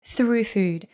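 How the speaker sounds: smooth, even sponsor read, softening at line ends; host reading a supplement sponsor message to listeners, ad voice. Acted. Host thanks the sponsor in a polished ad read.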